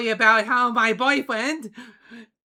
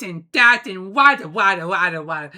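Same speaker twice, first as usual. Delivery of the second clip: silly sound imitation; 6 dB louder than usual. Shown as a demonstration. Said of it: "really sounded like this".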